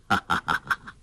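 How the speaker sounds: low, easy laugh. A narrator's reading. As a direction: chuckle it out with the daughter in arms. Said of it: "黄药师搂着女儿笑道". (搂着女儿低声笑)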